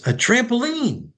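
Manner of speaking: put-on high, slow little boy's answer. Boy on Santa's lap names his wish, high child voice. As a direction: answer like an eager small child.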